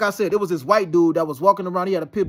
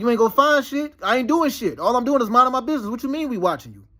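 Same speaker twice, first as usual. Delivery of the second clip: higher-pitched defiant comeback; dismissive retort; 4 semitones higher than usual. Retold or imitated. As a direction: brush them off, indignant and unbothered. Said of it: "I just shrug my shoulders like".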